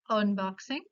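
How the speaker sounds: "unboxing" with its U said as O, onboxing; Spanish O vowel. Shown as a demonstration. Teacher repeating the exception, "unboxing" with initial O. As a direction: say "unboxing" starting on a rounded Spanish O. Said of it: "Imita claramente el sonido vocálico de la O".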